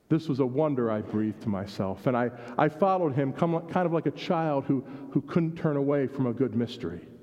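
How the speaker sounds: unhurried storyteller reading to a congregation; story narration. A narrator's reading. Pastor reads story to church, gentle storytelling. Reads The Rag Man aloud.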